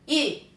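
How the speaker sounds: Y as a rounded ü, high; sound demo. Shown as a demonstration. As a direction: model a long rounded Y vowel. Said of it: "cómo se va a pronunciar". (sonido ü, agudo y sostenido)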